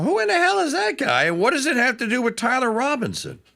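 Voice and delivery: high, incredulous outburst. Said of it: "and I went".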